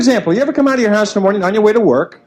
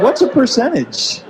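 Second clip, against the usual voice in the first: clueless question; 6 semitones higher, slower than usual. Pretend. Clueless thought voiced.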